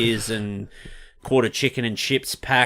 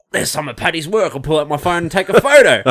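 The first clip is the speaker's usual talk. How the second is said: higher, keen inner voice; retold eagerness; 5 semitones higher than usual. Retelling spotting a friend's artwork, keen higher-pitched inner voice. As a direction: act out an excited fan's first impulse. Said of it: "I'm always like".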